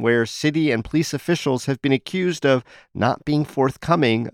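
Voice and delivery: steady, clear local news delivery; news read. Acted. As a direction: read the headlines like a radio host. Host reads news segment.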